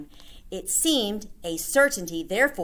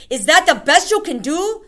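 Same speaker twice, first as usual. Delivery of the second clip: scornful demand; 11 semitones higher, 10 dB louder than usual. Acted. Witch berating audience.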